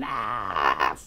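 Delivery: a short imitated scream; mock girl's scream. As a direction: imitate a girl screaming while tickled. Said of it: "she's screaming".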